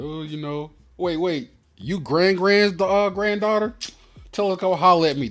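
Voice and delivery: loud, high, hammed-up old master voice; mock old master. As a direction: play the grumpy old teacher barking at the kid, loud and high. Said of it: "he was like".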